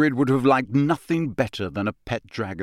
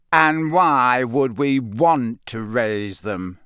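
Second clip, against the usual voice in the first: cold; 4 dB louder, slower than usual. Acted. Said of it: "said a cold voice".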